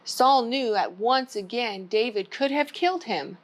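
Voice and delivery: put-on gentle storybook read-aloud for kids; story time reading. Children's librarian reading a Bible story, gentle.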